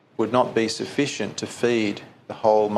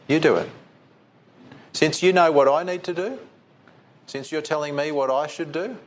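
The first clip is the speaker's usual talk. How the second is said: mock exasperated retort; 2 semitones higher than usual. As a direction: turn the task back on them, a touch sharp. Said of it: "probably in that tone".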